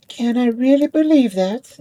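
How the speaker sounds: can't believe what she hears; surprised. Acted. Ball doubts the top.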